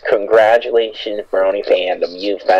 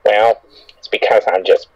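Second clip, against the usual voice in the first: put-on voice. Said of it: "why am I talking like this".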